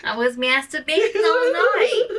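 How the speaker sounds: high, loud breathy confession; mock dramatic confession. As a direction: ham up a naughty confession.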